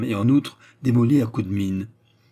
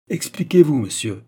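much higher and louder sharp demand; impatient demand; 5 semitones higher, 7 dB louder than usual. A narrator's reading. German officer to Destour, impatient demand. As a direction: lose patience, demand an answer. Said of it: "Andermatt s'impatienta".

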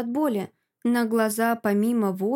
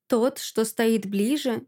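usual speaking voice

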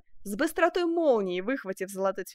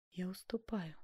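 much softer, a defeated breath; whisper; 12 dB quieter than usual. A narrator's reading. Duchess yielding to Benvenuto, whispered. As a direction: give in under your breath. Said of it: "прошептала герцогиня".

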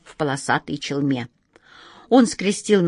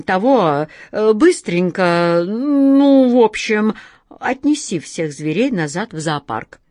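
сбивчиво; 4 dB louder than usual. Acted. Алёша сбивчиво торопит джинна.

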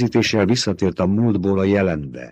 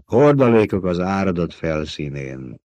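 bitter; 2 semitones higher than usual. Acted. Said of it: "keserű hangon".

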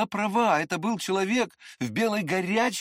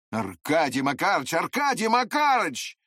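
pleading call; 3 dB louder than usual. A narrator's reading. Prince begs, repeated name.

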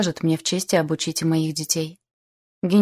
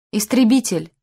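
higher, louder burst of delight; delighted exclamation; 4 semitones higher, 5 dB louder than usual. A narrator's reading. Boy spots the fighter jet on the airfield, delighted. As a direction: exclaim it like a thrilled child. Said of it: "Эллиот был в восторге".

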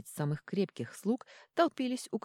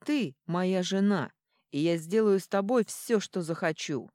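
put-on drunk menace; 3 semitones higher, 5 dB louder than usual. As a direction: lean on it like a drunk bully. Drunk husband threatening wife.

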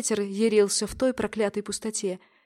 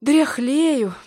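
с усмешкой; 5 semitones higher, 6 dB louder than usual. A narrator's reading. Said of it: "усмехнулся Семён".

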